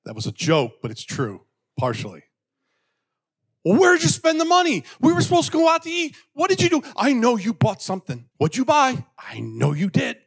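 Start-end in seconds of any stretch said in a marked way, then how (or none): 3.6-10.2 high, loud, mock nagging whine; mock accusing husband. Husband blaming his wife over the money, in a high nagging whine. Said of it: "blame the wife".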